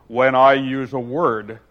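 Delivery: haughty Humpty scorn; scornful. Acted. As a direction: lay down the law with disdain. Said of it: "said in a rather scornful tone".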